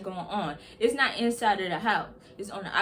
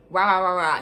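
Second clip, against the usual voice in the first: mock barking; 3 semitones lower, 5 dB louder than usual. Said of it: "He just barking off at the mouth".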